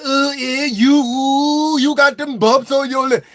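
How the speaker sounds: high, teasing put-on voice; mocking voice. Classmate teasing about lip bumps, high mock voice. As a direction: sneer it like a snooty classmate.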